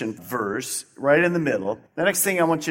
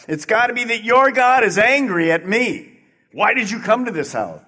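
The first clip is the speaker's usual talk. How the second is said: grieving woman; 6 semitones higher, 5 dB louder than usual. Acted. Woman voiced in a story.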